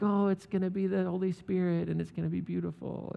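lightly voiced gentle Gabriel; gentle angel. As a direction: ease the news in tenderly. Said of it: "with a little more gentleness".

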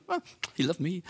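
a playful imitation of showing off; mock boast. John hinting he was the favourite, mock boastful. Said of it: "almost like a bit of a boast".

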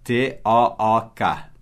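each letter spelled slowly; slow spelling. Shown as a demonstration. Teacher spells the word for students, slow and clear.

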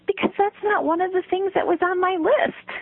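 a hint of a rule-bound storybook toad; Toad explaining. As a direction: deliver Toad's absurd logic straight.

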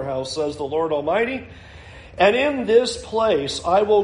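solemn, measured Bible reading; scripture reading. Acted. Pastor reads Haggai's second message aloud, solemn. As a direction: read God's promise with weight.

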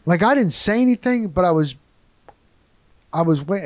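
ordinary talk

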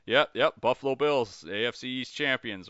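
mock amusement. Rival coach laughing off the underdog talk, mildly mocking. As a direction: lightly imitate a smug, laughing dismissal. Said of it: "just sitting around somewhere just laughing, going".

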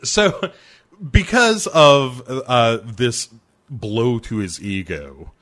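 real laughter breaking into the words; slowed by suppressed laughing; laughing while talking. Real, not acted. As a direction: try to carry on through the giggles. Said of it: "sorry, I started laughing again".

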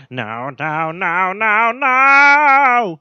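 imitating Mark. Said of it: "I'll end it with this from Mark".

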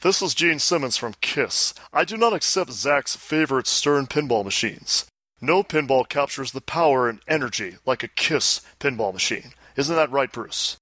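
lightly impersonated rock star; a hint of pompous celebrity proclamation; a rock star. Host reading listener's letter as the star, light impersonation. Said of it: "do this in the rock star's voice".

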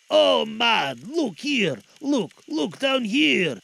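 loud, high urgent ghostly cry; slow, pressing, otherworldly call; exclaiming. Acted. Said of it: "exclaimed the ghost".

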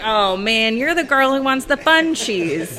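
imitating him with a laugh; amused, teasing shop owner. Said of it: "he'd be like".

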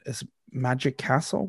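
normal talking voice

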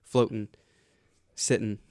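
"floating" and "sitting" ending in -n; Florida-style "floating, sitting" without the g; dropped G. Shown as a demonstration. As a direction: clip the -ing of "floating" and "sitting" to -n. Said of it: "we cut".

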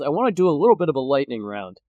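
fast, smooth radio host delivery. Real, not acted. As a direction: slip into a DJ announcer voice. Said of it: "I just actually did accidentally go into the radio voice".

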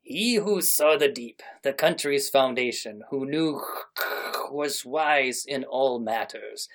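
slow, gruff anime movie narrator. Acted. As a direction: read it like a dramatic anime opening. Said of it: "I have to do this in my best anime voice".

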